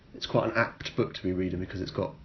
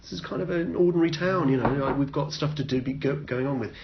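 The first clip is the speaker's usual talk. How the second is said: higher, lightly voiced complacent residents; naive townsfolk; 5 semitones higher than usual. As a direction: brush it off airily. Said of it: "residents of the town are like".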